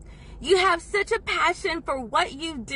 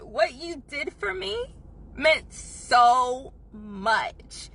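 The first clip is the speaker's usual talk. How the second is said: slow, held-back tears on meant so much; choked up thanks; much slower than usual. Retold or imitated. Thanking the waiter, voice near tears. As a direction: fight the tears as you thank him. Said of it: "I was trying not to cry".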